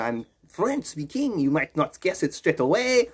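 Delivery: lightly put-on French accent, drawn out. Man greeting viewers at the Quebec border, French accent. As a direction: play a French speaker with a mild accent. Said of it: "took on a French accent".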